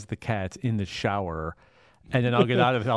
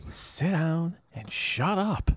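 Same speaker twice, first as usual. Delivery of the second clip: slow gruff quote; 6 semitones higher, much slower than usual. Retold or imitated. Movie quote reply.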